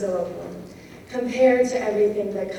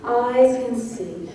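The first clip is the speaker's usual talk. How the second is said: slow "eyes can see", EYES punched louder; grouped in threes; 4 dB louder, slower than usual. Shown as a demonstration. Teacher showing syllable groups, slow and punctuated. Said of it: "groups of syllables and threesomes".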